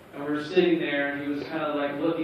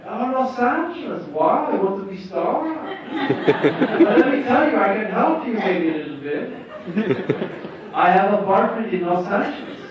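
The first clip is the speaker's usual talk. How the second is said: Tommy voice; 5 semitones higher, 5 dB louder than usual. Retold or imitated. Tommy offering LA apartment.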